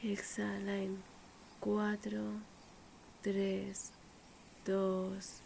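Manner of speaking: unhurried meditation voice with long pauses; measured, calm breathing-exercise delivery; guided meditation. Acted. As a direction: guide the listener gently through breathing, leaving space between phrases.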